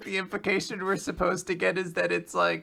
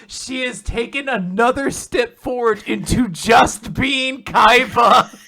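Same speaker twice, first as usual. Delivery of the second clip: excited gushing; 6 dB louder than usual. Real, not acted. Gushing over Toshusai's new jacket.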